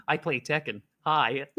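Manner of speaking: playful put-on American accent; mock American self-introduction; lightly hammed American voice. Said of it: "I could be American".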